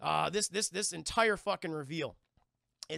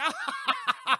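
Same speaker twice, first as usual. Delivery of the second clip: mock outburst; 7 dB louder than usual. Imitating her panicked outburst.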